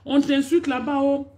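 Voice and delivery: high, insistent imitation of fans calling maman; lightly voiced whiny fans; mock pleading fans. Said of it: "Quand c'est pour venir dire".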